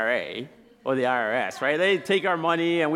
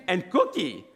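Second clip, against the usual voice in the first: higher voice, falling finish; child's firm haggling; 5 semitones higher than usual. Retold or imitated. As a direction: imitate a kid stating a demand. Son insists on extra treat.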